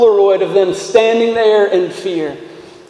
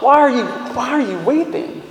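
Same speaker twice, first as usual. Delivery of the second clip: condescending question; 4 semitones higher, 3 dB quieter than usual. Retold or imitated. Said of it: "That would be an utterly inappropriate question".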